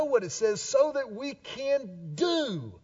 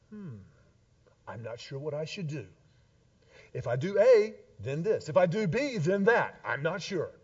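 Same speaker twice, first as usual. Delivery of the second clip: mock unsure God; 4 semitones lower than usual. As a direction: play a God dithering over choices, lightly. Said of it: "sits on his throne in heaven and goes".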